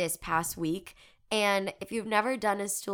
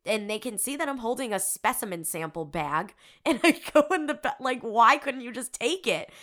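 exasperated complaint; 4 semitones higher, 6 dB louder than usual. Retold or imitated. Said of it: "I'm like".

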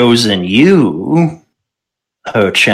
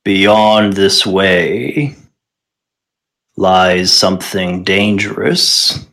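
slow, low solemn giant; booming giant voice; 3 semitones lower than usual. Acted. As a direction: intone it like an ancient giant. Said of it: "he says in a booming voice".

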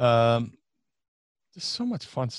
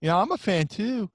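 mock pleading; 10 semitones higher than usual. Fan begging his friend to have a pop star call. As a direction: beg like a starstruck fan. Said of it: "I was like".

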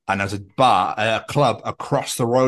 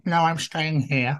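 slow, slightly raised put-on voice; mind refusing; 4 semitones higher, slower than usual. Mind refusing to grow with the body, stubborn. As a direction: lightly voice a mind digging in, slowly. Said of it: "your mind's just gone".

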